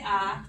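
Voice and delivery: saying ahh. Shown as a demonstration. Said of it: "open your mouth and say".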